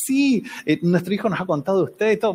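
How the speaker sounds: cortesía cariñosa imitada, empezando agudo; muy amorosa, disimulando. Retold or imitated. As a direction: imita a una mamá que disimula con cariño. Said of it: "muy amorosa". (amabilidad fingida de anfitriona)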